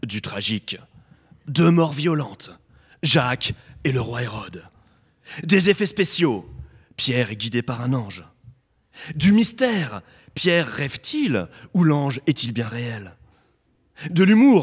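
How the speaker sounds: dramatic film trailer narrator announcing voice. Introducing the Acts 12 prison escape story, in a movie trailer voice. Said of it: "je vais prendre ma petite voix de bande-annonce".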